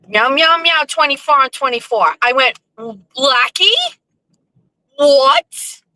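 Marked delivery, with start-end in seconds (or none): 0.1-2.2 higher-pitched mocking Portuguese accent; thick Portuguese accent. Blackie teasing her about her show, Portuguese accent. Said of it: "with this thick Portuguese accent". 2.8-5.8 higher, questioning disbelief; mock disbelief. Reacting to Blackie's teasing, mock disbelief.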